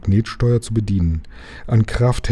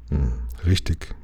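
low, soft thinking-aloud mumble; pensive grumble; 6 semitones lower, 6 dB quieter than usual. A narrator's reading. Lukas stumped by Jim's objection, pensive grumble. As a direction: grumble it low, conceding the point. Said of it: "brummte Lukas".

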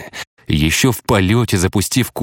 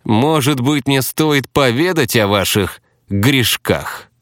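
slow, silky, higher sly threat; snakelike insinuation; 6 semitones higher, slower than usual. Acted. The hypocrite threatening to reveal Slava's sins, insinuating. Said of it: "змеиной вкрадчивости".

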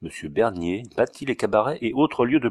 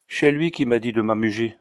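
put-on Auvergnat accent. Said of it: "avec son aimable accent".

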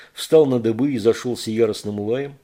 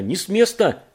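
shouted command; 8 semitones higher, 5 dB louder than usual. Acted. Gunman yells at approaching figure.

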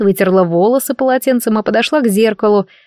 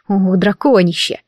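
slow, drawn-out grumble; grudging exasperation. Acted. Heroine remembers the emperor's humiliating whisper, slow exasperated grumble. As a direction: stretch the words with irritation.

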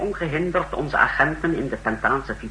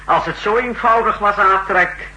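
higher and louder, sneering at the naive idea; scornful; 6 semitones higher, 5 dB louder than usual. Acted. Marcos sneers at Atrek for calling liquidation simple. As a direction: talk down to him with contempt.

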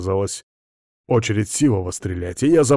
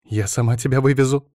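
resolute declaration; 5 semitones higher than usual. A narrator's reading. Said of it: "заявила она решительно".

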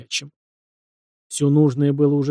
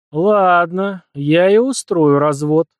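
slow, louder, menacing vow; ominous promise; 4 semitones higher, 7 dB louder, much slower than usual. A narrator's reading. The prince vows to settle with his wife, ominously. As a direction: draw it out like a threat. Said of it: "зловеще пообещал он".

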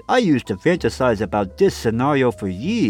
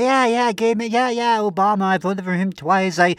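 higher, breezy liberal-lady voice; mock progressive woman; 5 semitones higher than usual. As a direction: gush like an earnest progressive. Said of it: "You're like".

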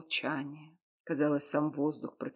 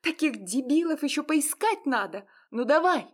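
much higher, louder, a woman railing at him; tearful furious shouting; 12 semitones higher, 4 dB louder than usual. Acted. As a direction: hurl the insults at him. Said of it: "закричала она". (гневный крик сквозь слёзы)

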